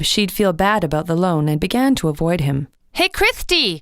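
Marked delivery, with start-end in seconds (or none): 2.9-3.8 mild call. A narrator's reading. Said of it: "he shouted".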